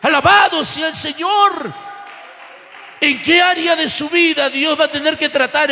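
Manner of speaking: insistent preacher pressing on phrase after phrase; forceful church sermon delivery; impassioned preaching. Real, not acted. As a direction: preach with fervent, driving conviction.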